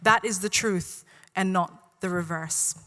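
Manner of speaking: measured spoken-word delivery, phrase by phrase; deliberate poetry reading with falling line ends; poem recitation. Real, not acted. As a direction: recite it to a room, pausing between lines. Reads own poem aloud.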